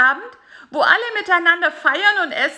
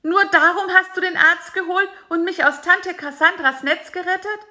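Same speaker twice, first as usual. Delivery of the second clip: bitter high fly voice; 10 semitones higher than usual. A narrator's reading. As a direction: throw his betrayal back at him. Bisi's bitter accusation.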